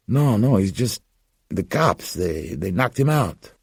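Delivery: put-on scared young man defending his friend; Gus, panicked denial. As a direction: deny it fast, scared for your friend. Gus denying friend infected.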